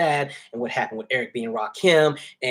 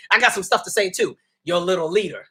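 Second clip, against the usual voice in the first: sassy attitude; 5 semitones higher, 4 dB louder than usual. Retold or imitated. Continuing acted outburst.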